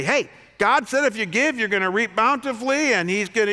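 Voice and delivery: high, loud hammed-up televangelist pitch; mock TV preacher. Mocking TV preachers for his congregation, hammed-up preacher voice. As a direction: ham it up like a showy TV preacher. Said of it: "a teaching that essentially goes like this".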